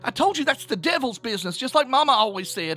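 high, loud rant rising to a shriek; hysterical sobbing. A narrator's reading. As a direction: build from frantic protest to full hysteria. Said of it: "fell silent with a sob".

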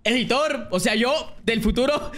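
laughing while talking. Real, not acted. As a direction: giggle through the words. Joking address to editor.

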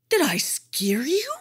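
breathy whispered question; the tiger's hushed whisper. A narrator's reading. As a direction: whisper it right in his face. Tiger speaks close up.

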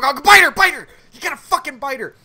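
high, loud retold cheering-on; excited pleading, jumping up in pitch; frantic urging. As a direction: egg the character on from your seat. Urging on film character.

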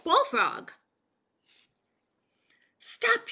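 high, loud urgent yell. A narrator's reading. Sheriff yelling at Bullfrog to stop. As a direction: shout to stop him now. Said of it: "yelled the sheriff".

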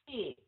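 "Seat" with a drawn-out double vowel, falling; long vowel. Shown as a demonstration. Teacher showing a double vowel to learners, long-vowel "Seat". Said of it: "hai nguyên âm mình được kéo dài".

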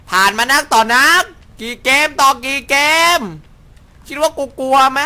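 high, loud taunting brag; mock-brave boast. Real, not acted. โม้ว่าไม่กลัว เสียงสูงดัง. (ท้าทายแบบโม้ๆ เสียงสูงดัง)

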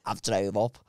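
low, soft put-on voice; Chris. Friend complaining about the five-hour drive, low soft voice. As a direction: plead in a low murmur. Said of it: "that's how he sounds".

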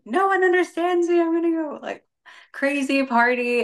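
put-on high, whiny rebellious teen voice; playing her dramatic younger self; mock angsty teen. College girl mocking her past self, high and whiny. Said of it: "thrown out there feeling like".

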